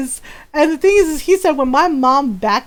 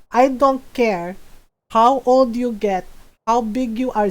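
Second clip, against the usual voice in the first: imitating stern mom; 2 semitones lower than usual. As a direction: mimic a mother laying down the law. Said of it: "she do my voice very well".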